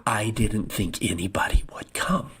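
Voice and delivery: put-on whispered, as the frightened girl said it; hushed whisper. Quoting the girl's first words.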